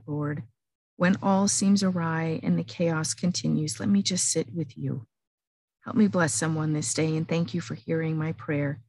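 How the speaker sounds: earnest spoken prayer, each "You see" leaned on; heartfelt prayer. Acted. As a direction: pray it sincerely, as if to God. Prays aloud to God.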